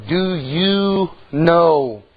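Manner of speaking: drawn out slowly, stretching know; a slow, probing preacher's question; like a preacher pressing the congregation. Retold or imitated. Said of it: "The preacher told".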